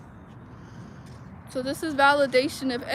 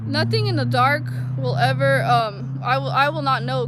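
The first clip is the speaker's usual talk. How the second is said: louder, insistent proclamation; emphatic declaration; 6 dB louder than usual. Real, not acted. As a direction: declare it like a preacher, pressing hard. Emphatic declaration about darkness exposed.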